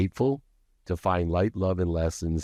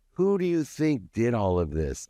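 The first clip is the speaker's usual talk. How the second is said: a mock drunken boast, a bit higher; retold drunken boast; 5 semitones higher than usual. Drunk husband boasting to his wife, mildly raised mock yell. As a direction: reenact a wasted rant, mildly raised. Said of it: "spinning around wasted ... going".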